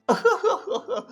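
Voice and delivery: high-pitched sobbing laugh, put on; mock emotional sob. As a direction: burst into hammed-up happy blubbering. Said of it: "I'm getting a bit emotional".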